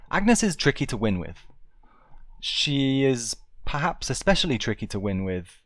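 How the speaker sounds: whispered aside; whispering. Real, not acted. Aside commentary to viewers.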